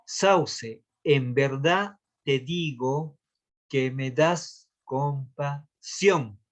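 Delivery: drawn-out line with pauses, landing on the last syllable of compasión; slow verse scansion. Shown as a demonstration. Teacher demonstrating a verse's final stressed syllable, slow scansion. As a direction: read it very slowly, syllable by syllable. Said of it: "la mayor fuerza de voz está en su última sílaba".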